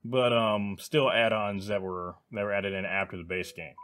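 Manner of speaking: talking through hiccups; hiccuping between words. Real, not acted. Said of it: "I'm still kind of hiccuping as I talk".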